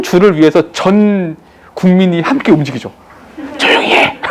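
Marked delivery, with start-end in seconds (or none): 3.6-4.2 whispered hush; imitating an exam proctor's hush; mock shush.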